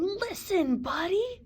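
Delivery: calling out loudly; yelling. A narrator's reading. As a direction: yell his name to get through. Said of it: "His parents tried yelling".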